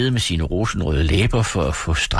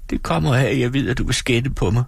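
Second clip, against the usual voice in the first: høj, ynkelig pigestemme; ynkelig stemme; 5 semitones higher than usual. Acted. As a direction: lyd ængstelig og lille. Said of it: "udbrød Dora med en ynkelig stemme". (Dora frygter skænd, ynkeligt og højt)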